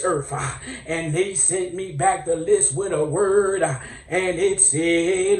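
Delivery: mock sermon cadence, phrases punched with a gasped "uh"; preacher voice. Comedian calling witnesses for Virgos, building mock preacher delivery. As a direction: work up into a hammed-up preacher's chant. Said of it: "let me get my preacher voice".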